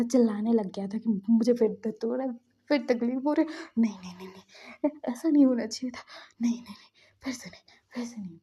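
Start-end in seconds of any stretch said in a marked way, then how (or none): 1.3-8.4 retold panic, starting loud and sinking to quick mutters; mock cries of pain, then hurried pleading; stammered denial that fades out; panicked screaming. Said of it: "चीखने लग गया था".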